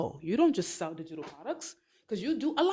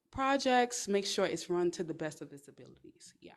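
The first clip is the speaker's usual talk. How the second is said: a lightly voiced calm professional, softer; demo confident introduction; 5 dB quieter than usual. Shown as a demonstration. Showing viewers how to answer a stranger, lightly voiced calm confidence. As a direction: introduce yourself evenly and briefly. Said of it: "you gotta sit there and be like".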